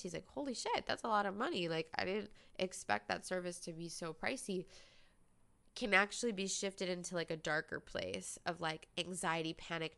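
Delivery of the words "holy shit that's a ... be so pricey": surprised. Retold or imitated. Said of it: "he's actually just surprised".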